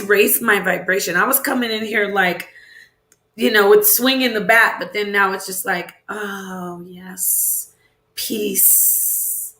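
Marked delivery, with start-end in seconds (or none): 6.1-9.5 breathy whispered peace; whispered goodbye. Real, not acted. Streamer whispering goodbye to her chat, soft. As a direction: let the word fade out as a whisper.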